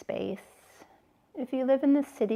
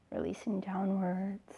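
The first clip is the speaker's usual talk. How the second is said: whispering; 6 dB quieter than usual. Acted. Relaxation cue during meditation.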